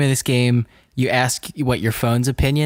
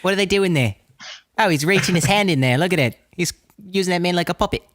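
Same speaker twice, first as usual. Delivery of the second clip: attempted Australian accent; 4 semitones higher, faster than usual. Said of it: "how's Tim's accent there".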